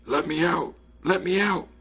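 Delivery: high, strained call from a trapped voice; muffled calling voice. A narrator's reading. A trapped spirit calling to whoever might hear, muffled calling. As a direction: call out from somewhere shut in. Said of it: "heard a muffled voice calling".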